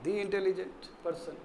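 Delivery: low, unhurried "the" with an ee vowel; "the" as dee. Shown as a demonstration. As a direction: say "the intelligent" as dee intelligent. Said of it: "intelligent में तब डी होगा".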